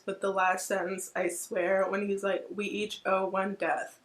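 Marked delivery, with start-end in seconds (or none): 2.5-4.0 choked up reading. Real, not acted. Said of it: "I'm gonna cry just reading this".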